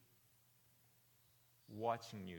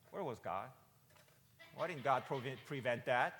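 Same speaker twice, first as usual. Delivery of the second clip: indignant questioning; 3 semitones higher, 6 dB louder than usual. Retold or imitated. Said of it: "we think to ourselves".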